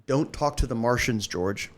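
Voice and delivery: lightly done Boston accent, dropped r in Martians; a hint of a Boston local scolding; showing his Boston warm-up line. Shown as a demonstration. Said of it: "My Boston is".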